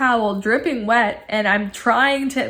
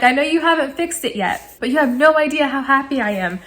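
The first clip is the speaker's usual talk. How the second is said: higher-pitched happy gushing; excited; 4 semitones higher than usual. Retold or imitated. Customer thanking tech before the fix, excited. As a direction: gush your thanks, pitched up. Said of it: "I was just so excited".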